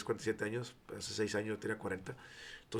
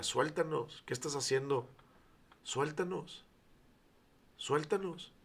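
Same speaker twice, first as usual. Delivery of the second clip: higher, pleading demon crying suéltanos; 4 semitones higher, slower than usual. Retold or imitated. A mild hint of the possessed man's demon begging. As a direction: let the demon beg to be released. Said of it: "me di cuenta que estaba endemoniado".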